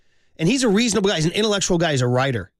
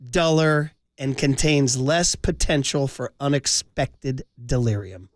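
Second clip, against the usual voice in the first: slow, measured recitation of a cherished passage; recited quote; slower than usual. Shown as a demonstration. Host reciting a memorized paragraph to his co-host, slow and reverent. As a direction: recite it slowly like a poem. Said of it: "I've memorized it".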